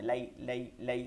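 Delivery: "লাই" short, the glide not held; quick leen. Shown as a demonstration. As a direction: say "লাই" promptly without stretching it. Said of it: "দ্রুত পড়তে হয়". ("লাই" দ্রুত, টান ছাড়া)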